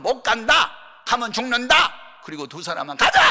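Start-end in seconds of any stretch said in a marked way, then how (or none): 0.0-1.7 loud, high cry of warning; acted-out alarmed shouting; shouted refusal. Acts out the fearful spies' report. 3.0-3.2 loud, forceful call to go; acted-out battle cry; rallying shout. Acts out two spies urging on.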